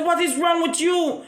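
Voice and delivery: confronting shout. Retold or imitated. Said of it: "And me say".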